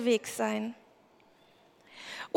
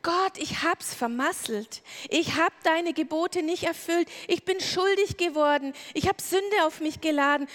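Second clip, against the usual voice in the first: pleading, a touch higher; honest confession; 3 semitones higher than usual. Pretend. Adam confessing his guilt to God, mildly pleading. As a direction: humbly own up and beg for help. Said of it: "dass er zu Gott ganz ehrlich kommt und sagt".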